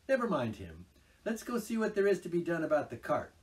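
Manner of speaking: matter-of-fact explaining; sensible Rat. A narrator's reading. Rat explains Toad's craze to Mole.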